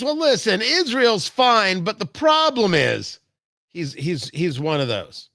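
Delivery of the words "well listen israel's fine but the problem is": higher mock voice of a clueless pundit; sneering mock impression of a guy with insane takes; mocking imitation. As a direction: parody him, higher and a touch shouted. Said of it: "he talks like this".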